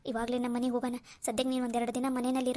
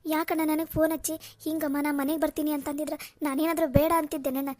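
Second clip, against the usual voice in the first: loud, higher, crying reproach at her brother; tearful outburst; 4 semitones higher, 5 dB louder than usual. Acted. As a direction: cry out at him through tears. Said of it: "ಅಳ್ಬೇಡಮ್ಮ, ಅಳ್ಬೇಡ".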